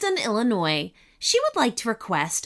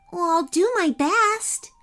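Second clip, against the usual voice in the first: high and cheerful, with a smile; smiling girl; 7 semitones higher than usual. A narrator's reading. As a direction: promise it brightly. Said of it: "Ananya said with a smile".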